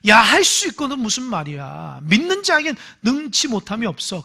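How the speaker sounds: a touch of Jesus scolding; Jesus rebuking a doubting father, mildly stern. Retold or imitated. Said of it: "야단치는 말이에요".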